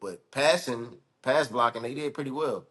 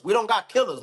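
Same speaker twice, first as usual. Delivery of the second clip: higher and louder on "killers"; "killers" punched higher and louder; emphatic repeat; 8 semitones higher, 4 dB louder than usual. Real, not acted. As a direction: hammer the point home, louder. Repeats the point with force.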